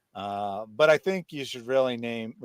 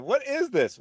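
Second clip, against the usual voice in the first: mocking quote; 12 semitones higher than usual. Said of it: "I laughed and said".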